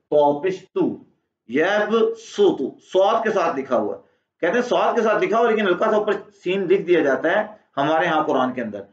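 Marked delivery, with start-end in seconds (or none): 1.5-2.8 यब सुतु very slow with a thick su; tongue back, thick su in यब सुतु; heavy su. Shown as a demonstration. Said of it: "मोटा निकालें". (मोटा सु निकालें)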